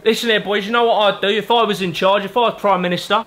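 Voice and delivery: a touch of a cocky London geezer; Mickey the geezer. Acted. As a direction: hold forth like a pub loudmouth at the table. Narrator voices Mickey the geezer.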